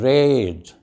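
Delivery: "rate" with a long A; teacher's held vowel in "rate"; long A demo. Shown as a demonstration. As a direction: model "rate", vowel as in "day". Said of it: "When we use A in the middle".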